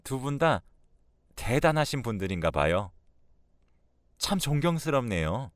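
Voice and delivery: mock admiration; lightly sarcastic compliment. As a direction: praise them with a sarcastic edge. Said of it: "나 비꼬는 거냐".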